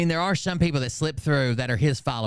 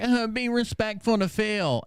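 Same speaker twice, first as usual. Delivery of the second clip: high, drawn-out mimicking plea; mock follower; 8 semitones higher than usual. Streamer mimicking Phil's followers demanding respect, mocking high voice. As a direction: imitate a fan's protest in a put-on high voice.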